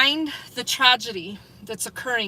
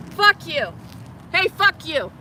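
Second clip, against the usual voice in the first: raised, angry cursing; 6 semitones higher than usual. Real, not acted. Streamer cursing at departing cops, angry. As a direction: hurl it after them, high-pitched. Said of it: "That's why I'm angry".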